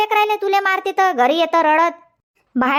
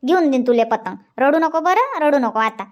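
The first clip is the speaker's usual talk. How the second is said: soothing; 4 semitones lower than usual. Acted. Grandmother soothing crying child.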